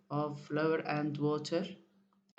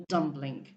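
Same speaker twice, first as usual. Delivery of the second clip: Dumpling with the first syllable DUM stressed; 3 semitones lower than usual. Shown as a demonstration. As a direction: hit DUM in Dumpling, let -pling fall. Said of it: "So I stress the first".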